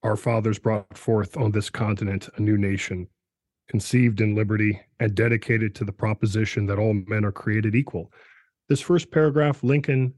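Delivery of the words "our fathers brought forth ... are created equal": measured poetic reading; poetic recitation. Shown as a demonstration. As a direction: let the cadence carry it. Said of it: "you hear it in the language itself".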